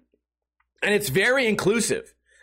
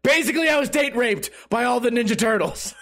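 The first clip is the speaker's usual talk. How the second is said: said through a laugh for the clip; giggling soundbite take; 3 semitones higher than usual. Shown as a demonstration. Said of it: "That could be a sound alert".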